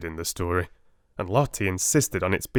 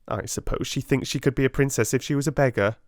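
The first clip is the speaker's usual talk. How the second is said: haughty schoolgirl, pitched up; spiteful Lavinia; 6 semitones higher, faster than usual. Acted. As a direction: sneer it like a spoiled rich girl. Lavinia voiced in story.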